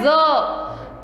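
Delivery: "ज" as a voiced "za"; Z sound. Shown as a demonstration. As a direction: give "ज" a buzzing z onset. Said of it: "last में किसका sound आ रहा है". ("ज" को ज़ बोलते हुए)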